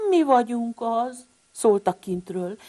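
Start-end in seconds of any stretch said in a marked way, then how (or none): 0.1-1.3 calling siblings. Acted. Siblings calling from outside storm.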